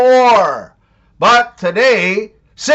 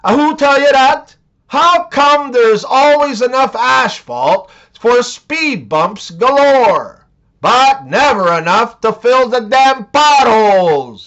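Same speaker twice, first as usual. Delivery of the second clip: put-on Jamaican accent; 3 semitones higher than usual.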